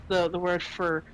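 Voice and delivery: usual speaking voice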